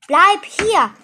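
high, loud request; urgent plea. A narrator's reading. Igitte begs impatient Ette to stay, urgent plea. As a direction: call it out pleadingly. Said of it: "bat Igitte".

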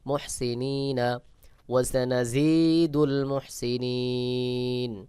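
ওয়াসানাজিদুল মুহসিনিন said slowly, drawn out; joined word reading. Shown as a demonstration. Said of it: "spelled then joined". (ধীরে টেনে পড়া)

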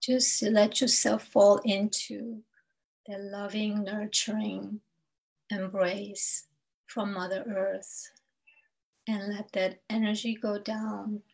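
unhurried meditation guide, long pauses between phrases; spaced-out phrases, leaving room to breathe; guided meditation. Acted. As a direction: lead listeners gently through breath and grounding.

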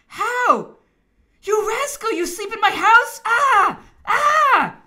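high, loud, scandalised scolding; indignant outburst. A narrator's reading. Emperor scolding the minister asleep in his house, indignant. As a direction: cry out in outrage, building to a shout.

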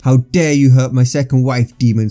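mild mock yell of outrage; understated rage, leaning on the accusation; enraged yell. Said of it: "Sasuke yelled".

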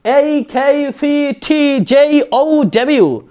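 very slow letters from "এ" to "ডব্লিউ", each vowel gliding; pronunciation drill. Shown as a demonstration. Teacher modelling letters to practise, slow drawn-out "ডব্লিউ" without l. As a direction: stretch each letter, puffing "কে" and "টি". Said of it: "এইভাবে করে বারবার".

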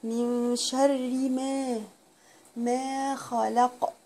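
drawn-out, measured recitation; slow Quran recitation. Shown as a demonstration. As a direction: recite each word slowly. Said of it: "Quran recitation lesson". (تلاوة بطيئة مرتلة)

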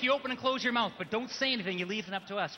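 ordinary talk

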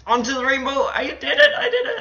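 high, loud, rising into a squeal; triumphant cry. Real, not acted. Gamer landing on the rainbow, triumphant cry.

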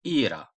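"İra" with the stress on İ; stress on first syllable. Shown as a demonstration. Teacher showing stress on the first vowel, clear. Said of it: "Vurgu i'nin üzerinde".

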